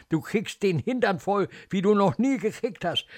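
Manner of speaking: furious nurse laying down a threat; angry threat. Acted. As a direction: threaten the child with a thrashing. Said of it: "Ekel, Zorn".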